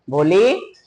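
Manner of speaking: put-on teacher calling a shy girl lovingly. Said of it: "इतने प्यार से बोली".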